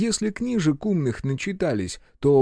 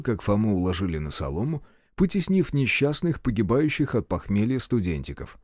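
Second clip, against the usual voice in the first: usual speaking voice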